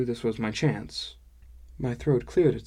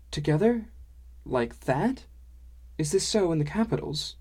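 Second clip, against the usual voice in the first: high, questioning dwarf-woman voice; puzzled dwarf woman, high rising questions; incredulous dwarf woman; 6 semitones higher than usual. Acted. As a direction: ask in curious disbelief, pitch swooping up.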